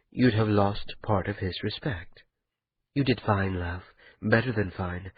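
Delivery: quiet, intimate reassurance to a lover; a hushed wife soothing her worried husband; Kian, soft and tender. Acted. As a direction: murmur comfort close to his ear. Kian comforting Ota in bed.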